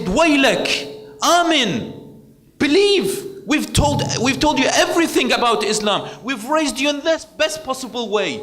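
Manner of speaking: half-shouted scolding, pitch way up; mock scream at son. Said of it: "they screamed at their son".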